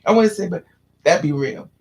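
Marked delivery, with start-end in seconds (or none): 0.0-0.5 put-on lightly raised pleading child voice; a hint of a whiny child begging; little kid voice. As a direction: ask like an eager little kid. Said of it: "little kids that they say".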